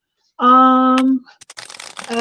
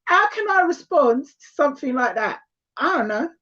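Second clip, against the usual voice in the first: Cockney voice; 3 semitones higher than usual. Shown as a demonstration. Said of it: "my Cockney voice".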